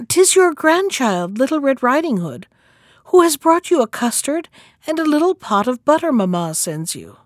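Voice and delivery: high, lightly voiced grandchild; little girl answering. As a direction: announce yourself brightly to grandmother.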